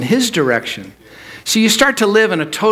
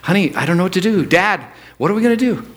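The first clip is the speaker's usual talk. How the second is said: worried family; faster than usual. Retold or imitated. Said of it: "your family says to you".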